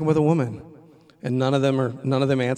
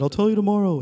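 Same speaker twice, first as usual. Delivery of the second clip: higher and louder, insisting; firm insistence; 7 semitones higher, 6 dB louder than usual. Retold or imitated. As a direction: hold your ground, raised. Teacher insisting in quarrel.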